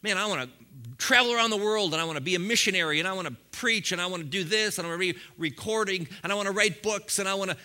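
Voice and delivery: fast, eager run of wishes; new believer gushing about dreams; eager dreamer. Retold or imitated. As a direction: rattle off big dreams, barely pausing. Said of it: "huge dreams like".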